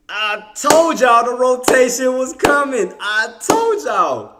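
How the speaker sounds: slow, drawn-out told-you-so; gloating. Real, not acted. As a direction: savor every word of it. Gloating after correct call.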